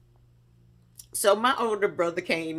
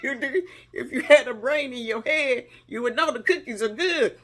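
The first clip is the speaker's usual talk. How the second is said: mom voiced laughing; 5 semitones higher than usual. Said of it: "She said".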